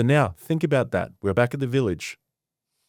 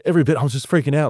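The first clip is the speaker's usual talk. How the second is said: higher, louder and rushed, imitating a panicking villager; hammed-up panicked rush; mock panic; 5 semitones higher, 6 dB louder, much faster than usual. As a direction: blurt it out fast as if freaking out. Jerry panicking to the chief.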